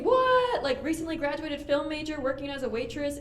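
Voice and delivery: high incredulous What, then questioning; mock disbelief. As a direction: act shocked at the waitress news. Imagined audience disbelief.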